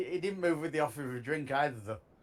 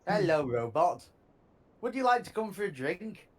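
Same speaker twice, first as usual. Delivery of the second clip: condescending greeting, lifting into the invitation; 3 semitones higher, 4 dB louder than usual. Acted. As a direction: talk down to the robot, then invite it. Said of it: "That sounded pretty condescending to me".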